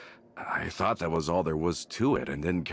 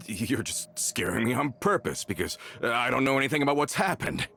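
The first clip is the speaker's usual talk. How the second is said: whispered, rising to a high crack; whispered panic going high; frightened disbelief; 4 semitones higher than usual. Acted. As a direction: breathe it out in fear, voice climbing. Disbelief at friends' deaths.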